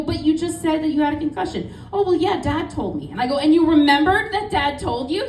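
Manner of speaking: half-laughing, catching her out; laughing disbelief. Retold or imitated.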